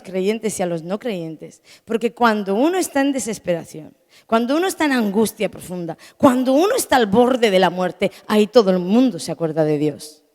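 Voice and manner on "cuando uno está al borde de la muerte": ordinary talk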